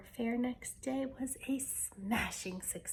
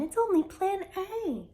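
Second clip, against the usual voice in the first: scornful; 9 semitones higher, 7 dB louder than usual. A narrator's reading. Mirabella scoffing at the plan.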